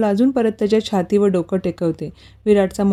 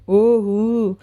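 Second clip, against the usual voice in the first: excited squeal; much slower than usual. A narrator's reading. Girl greets her guest with a mild excited whoop. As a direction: jump up with a small cheer. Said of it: "उडी मारतच ओरडते".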